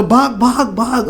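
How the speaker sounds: high urgent cry of run run; mock yell. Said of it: "ऐसे चिल्लाते जोर से". (घबराया हुआ ऊँचा चीख़ना)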